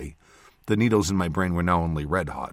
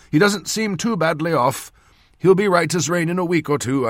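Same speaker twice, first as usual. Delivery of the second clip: put-on loud, raised old man's voice; old surgeon's verdict; 9 semitones higher, 5 dB louder than usual. A narrator's reading. Surgeon assessing his patient, loud and confident. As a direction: announce a hopeful verdict as the doctor.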